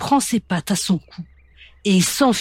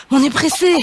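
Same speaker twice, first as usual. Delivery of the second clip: breathless hen; 7 semitones higher, 4 dB louder, faster than usual. Acted. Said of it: "ajoute Picorette essoufflée".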